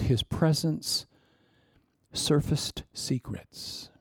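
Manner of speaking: slow and softening; slow emphasis. Acted. Preacher landing his point, slow and soft. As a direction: draw it out, quiet and weighty. Slowed weighty sermon point.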